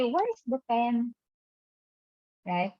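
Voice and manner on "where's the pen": slow, soft shy question; slow and a little softer; indirect hint. Shown as a demonstration. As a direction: ask shyly, hinting. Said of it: "So we say".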